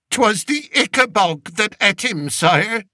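a humble peasant begging the king; old country shepherd. Acted. Old shepherd telling the king of his journey, rustic pleading voice.

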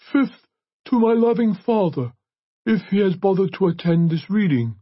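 high, projected priest's voice; priest reading a will. A narrator's reading.

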